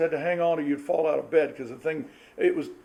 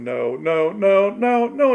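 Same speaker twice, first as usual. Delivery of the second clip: no after no, each one louder; mother's no getting louder; 2 semitones higher, 5 dB louder, much slower than usual. Retold or imitated. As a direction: build the no up, louder every time. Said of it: "it gets louder and louder".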